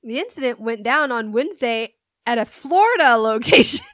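laughing through the news; giggling while reading it out; gleefully reading gossip. Real, not acted. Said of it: "this is the best part".

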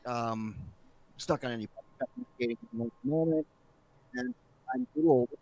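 too close to mic, popping on the mic; popping mic, audio breaking up. Real, not acted. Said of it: "I don't know if you're popping on the mic".

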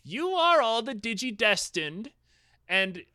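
put-on high, slow old sage; lightly voiced mystic old man; wise old man voice. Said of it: "And he's like".

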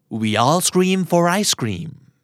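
very slow, each word spaced out; slow drill. Shown as a demonstration. Teacher slowly modelling the rhyme for listeners, spaced out. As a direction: lay every word down slowly. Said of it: "พูดไปห้าครั้งนะครับ".

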